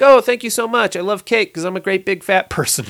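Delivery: high, gushing mock voice for the heavy-set nurse; mock-grateful nurse, high and breathless. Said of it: "And she's like".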